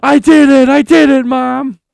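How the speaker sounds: put-on high, loud triumphant kid shout; excited kid voice. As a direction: yell it like a proud kid to Mom. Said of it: "'cause she's like".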